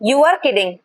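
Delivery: teacher's demo of the falling half on "You are kidding"; falling pitch start. Shown as a demonstration. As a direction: let the pitch drop into "kidding". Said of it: "falling pitch के साथ start".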